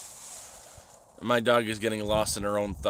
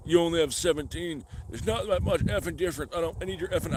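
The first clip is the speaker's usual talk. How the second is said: lightly voiced angry streamer, a bit higher; mock freak-out; 4 semitones higher than usual. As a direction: rant like the offended streamer, mocking. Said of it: "starts freaking out at me".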